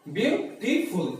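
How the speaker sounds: ब्यूटीफुल said slowly, every syllable clear; ब्यूटीफुल drawn out so students hear its three parts; slow clear demo. Shown as a demonstration. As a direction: model ब्यूटीफुल slowly for the class. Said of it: "कितने बार में बोला जाता है".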